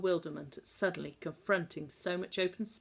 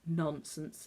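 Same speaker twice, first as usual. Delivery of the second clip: husky; 3 dB quieter than usual. Acted. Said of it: "expostulated Missus Little huskily".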